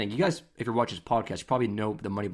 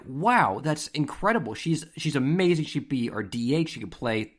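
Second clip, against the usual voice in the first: higher, louder gushing praise; imitating delighted scout; 4 semitones higher, 3 dB louder than usual. Scout raving about a batter to her dad, acted-out excitement. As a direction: play a scout bowled over by a player. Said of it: "the scout is loving it".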